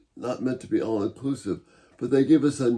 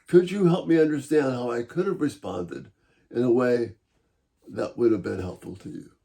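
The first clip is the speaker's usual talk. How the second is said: inviting, encouraging. Shown as a demonstration. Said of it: "a tone that's inviting and encouraging".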